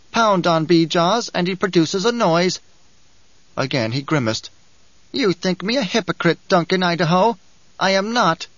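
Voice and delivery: a sly little schemer, lightly voiced; dwarf character voice. A narrator's reading. Dwarf mocks himself.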